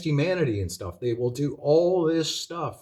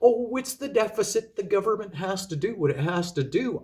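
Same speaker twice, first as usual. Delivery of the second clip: mock the gullible public in a raised, sing-song voice; higher, airy parody of people shrugging it off; mocking naive voice; 5 semitones higher than usual. Ranting vlogger parodies complacent citizens, mocking higher voice. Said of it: "And people just go".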